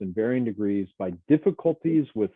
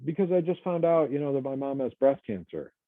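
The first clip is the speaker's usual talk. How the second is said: distressed coworker; 5 semitones higher than usual. Retold or imitated. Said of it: "they say".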